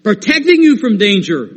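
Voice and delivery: firm and ringing, slow on I am the Lord; rising to a high cry on the mountains line; emphatic. Acted. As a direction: declare it like the Lord who means business. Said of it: "our Father lets us know emphatically".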